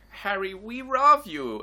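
drawn-out imitation of Harry's parents; mock parents' voice. Friends retelling the film, mimicking the parents. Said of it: "they're like".

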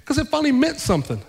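high, soaring voice of a man in tears; imitated tearful outburst. Husband explains to pastor why the card moved him, mock tearful. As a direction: mimic a crying man, pitch leaping up. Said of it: "why are you crying now".

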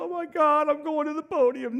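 high, loud, giddy squeal; mock gushing athlete. Preacher mocks an Olympian gushing over the podium, high and loud. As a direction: ham up an overexcited athlete. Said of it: "I've never seen anybody in the Olympics go".

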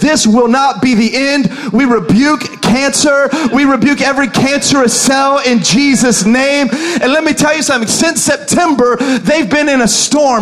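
forceful, declaring faith with authority; emphatic prayer rebuke swelling into preaching; full-force preaching. Real, not acted. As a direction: proclaim it boldly to the congregation.

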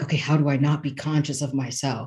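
laughing. Retold or imitated. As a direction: chuckle through the anxious inner thought. Mocking her own self-conscious thoughts.

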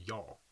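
"y'all" said like "yawl", rhyming with "shawl"; her odd y'all. Shown as a demonstration. Showing her cohost how she says "y'all", rhymes with shawl. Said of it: "'cause I say it weirdly".

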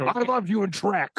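high raspy ranting host; Alex Jones voice. Acted. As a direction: bark it like a radio host. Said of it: "gonna hurt your voice".

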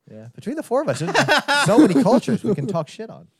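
laughing while talking; words broken up by giggles; 1 laughing through. Real, not acted. Host joking about mocking cultures, laughing.

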